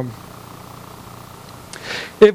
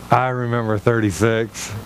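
put-on lower-pitched elderly reminiscing; vintage guy; 8 semitones lower than usual. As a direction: imitate a wistful old man. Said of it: "a vintage guy".

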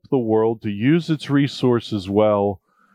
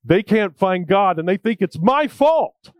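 put-on scared boy; 7 semitones higher than usual. Scared boy answers brother.

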